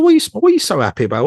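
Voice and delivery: fast, high mock-indignant question; retold loud demand. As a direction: blurt it out in exaggerated annoyance. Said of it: "Like, really loudly".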